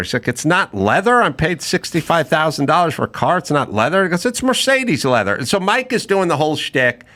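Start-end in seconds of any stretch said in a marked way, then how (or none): 0.3-4.0 higher-pitched mock indignation; indignant customer. Buyer complains to the Mercedes guy, indignant. Acted complaint to car salesman. 4.3-5.3 higher-pitched imitation German accent. Salesman insists to the buyer, in a German accent. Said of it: "thing in the German accent".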